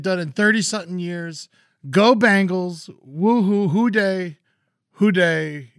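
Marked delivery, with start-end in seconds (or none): 1.9-5.7 slow, drawn-out fan cheer; team cheer. Real, not acted. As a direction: cheer it like a stadium chant. Cheering for the Bengals.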